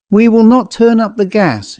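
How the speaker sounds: "not turn up the gas" pitched high and firm; emphatic. A narrator's reading. Prudence with a sudden idea, "not" emphatic. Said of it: "with an emphasis".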